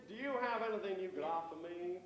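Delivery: lightly put-on American tourist; bad American accent. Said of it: "that's my American accent".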